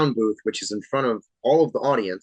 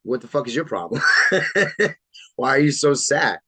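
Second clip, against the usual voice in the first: laughing tease; 4 semitones higher than usual. Retold or imitated. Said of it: "he's like".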